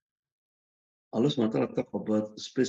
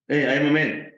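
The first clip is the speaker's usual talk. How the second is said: mock indignant husband; 3 semitones higher, 7 dB louder than usual. Husband answering a yelling wife.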